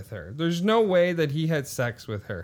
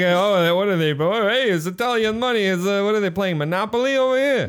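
raised, louder mock voice; mock onlooker; 4 semitones higher, 4 dB louder than usual. Onlooker scoffing at play-looking money, loud mock outburst. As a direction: play a loudly puzzled onlooker.

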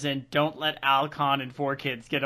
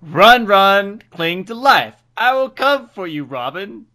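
loud, higher demonic bellow; 6 semitones higher, 13 dB louder than usual. Acted. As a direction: roar it like a possessed demon. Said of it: "That's my demon voice".

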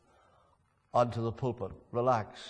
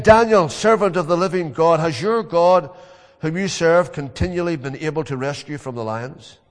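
anguished king; 3 semitones higher, 9 dB louder than usual. Retold or imitated. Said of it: "called to me in an anguished voice".

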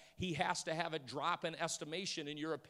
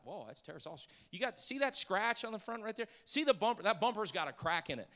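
lightly voiced picky buyer, pitched up; haggling buyer; 3 semitones higher, 5 dB louder than usual. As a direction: run down the car like a picky buyer.

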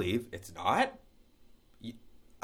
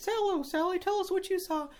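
much higher field reporter voice, bright and chirpy; Jenny the field reporter. Acted. Field reporter Jenny greeting her witness on air in a high chirpy voice. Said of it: "tell us more about that, Jenny".

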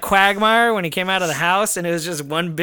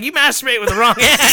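mom laughing; 5 semitones higher, 4 dB louder than usual. Retold or imitated. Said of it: "My mom was like".

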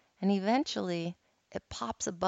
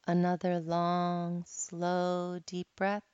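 guided meditation. Acted. Resumes guided meditation after anecdote.

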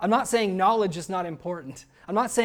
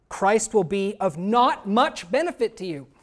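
mock misquote; 4 dB louder than usual. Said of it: "What does Paul say".

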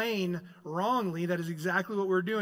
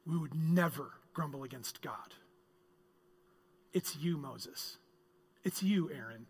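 muttered Israelite denial; 4 semitones lower, 6 dB quieter than usual. Retold or imitated. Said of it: "put ourselves in their shoes".

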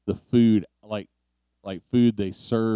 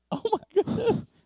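surprised. Real, not acted. Reacting to fish news.

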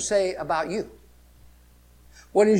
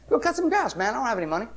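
retold dad; 4 semitones higher, much faster than usual. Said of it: "You know what he say?".

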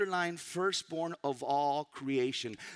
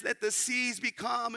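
commanding; 6 semitones higher, 4 dB louder than usual. Retold or imitated. Jesus commanding the seas, retold.

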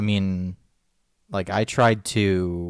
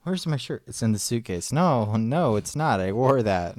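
mimicking the argument. Replaying the shirt argument with partner, light mocking imitation. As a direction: lightly act out both sides of a squabble. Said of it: "It's like, who's on first?".

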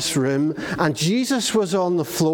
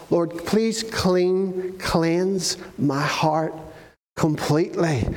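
slow, pleading prayer to God; earnest prayer; slower than usual. Retold or imitated. David begging God to cleanse his heart, slow and earnest. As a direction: draw each word out like a humble prayer.

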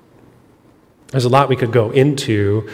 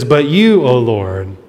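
pleading lament; slower than usual. Acted. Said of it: "is conveying when it says".

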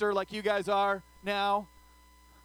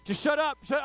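mock freaked-out friend; 3 semitones higher than usual. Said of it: "she's freaking out".

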